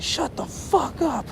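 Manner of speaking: high, slow, mocking driver impression; mock snarl. Driver silencing the screaming, praying friend, mock snarl. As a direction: sneer it out slowly. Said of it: "he's like".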